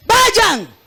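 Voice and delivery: segundo "Vayan" más alto y más fuerte; énfasis creciente. Retold or imitated. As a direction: repite "Vayan" subiendo la voz con urgencia. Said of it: "Dios dijo". ("Vayan" gritado con más fuerza)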